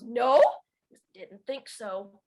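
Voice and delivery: sassy back-and-forth, punch then drop; sassy exchange. Shown as a demonstration. Survival lesson exchange between old man and Emmeline, sassy. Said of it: "It's just so sassy".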